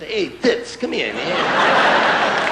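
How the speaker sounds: hearty call to a buddy, drawn out; mock friendly greeting. Comic playing a guy calling his buddy over, hearty. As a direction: hail a pal across the room.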